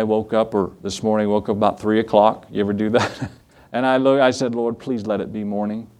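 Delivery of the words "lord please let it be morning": low, soft retold prayer; mock-weary murmured prayer; weary plea. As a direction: plead quietly from a sleepless bed. Retells a sleepless night prayer.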